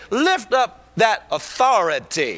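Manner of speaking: commanding shout. Acted. God commanding Moses.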